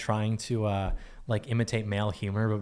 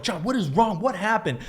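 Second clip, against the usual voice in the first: mock teacher; 10 semitones higher than usual. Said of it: "the teacher would come over".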